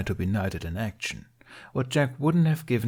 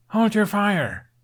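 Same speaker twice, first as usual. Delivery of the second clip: loud high call to stop the shooting; 12 semitones higher, 6 dB louder, slower than usual. A narrator's reading. Hiccup calling to the twins to stop, loud call. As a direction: shout it out, slow and commanding. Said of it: "Hiccup called".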